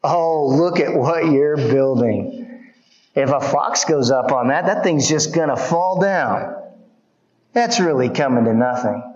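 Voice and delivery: a hint of a scoffer belittling the wall; mild mocking taunt. Preacher voicing the opposition taunting tired builders, lightly mocking. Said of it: "here comes the opposition".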